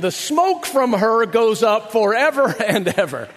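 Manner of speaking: laughs through the quote; real laugh breaking in. Real, not acted. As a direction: chuckle over the last words. Quoting scripture while laughing.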